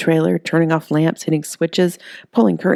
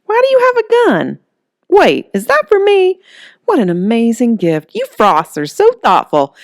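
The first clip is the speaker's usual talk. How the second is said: much higher and louder, gushing over a gift; delighted Holly; 7 semitones higher, 5 dB louder than usual. Acted. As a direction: squeal with girly delight.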